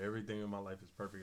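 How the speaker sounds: ordinary delivery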